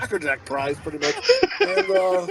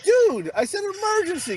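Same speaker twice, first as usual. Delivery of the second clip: tag. Retold or imitated. Exasperated parent calling kid, acted.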